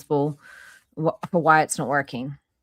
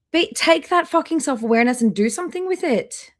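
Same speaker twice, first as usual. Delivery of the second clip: exasperated rant; 9 semitones higher, 4 dB louder than usual. Real, not acted. Streamer rants at the vlogger.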